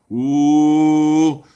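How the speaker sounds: loud, long "ooh"; drawn-out ooh. Pretend. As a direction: let out a sustained, loud ooh. Mock reaction to being angered.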